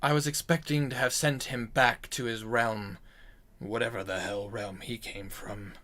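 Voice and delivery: lightly voiced storyteller, low-key and measured; grave demon-slayer. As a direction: recount an old kill, voice sinking at line ends. Game master plays character telling his kill.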